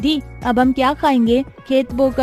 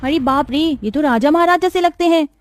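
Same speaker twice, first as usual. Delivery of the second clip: put-on high-pitched girlish astonishment; amazed little sister; 7 semitones higher than usual. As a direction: gasp it out high, awed by the visitors. तपाक से बोला.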